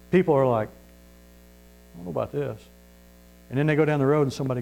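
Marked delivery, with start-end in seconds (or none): 0.7-2.6 much softer, slow and unsure; hesitant doubter. Acted. People put off by a shouting preacher, hesitant and hushed. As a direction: back away from it quietly.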